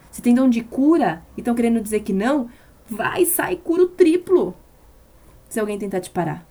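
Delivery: fiery pulpit crescendo; rousing shout. Acted. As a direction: push them out the door with it. Preaching climax.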